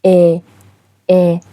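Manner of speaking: ا drawn out long, like a long Thai aa; Thai long vowel demo. Shown as a demonstration. Teacher sounds the long vowel for students. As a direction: hold ا long and clear. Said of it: "صداش هست".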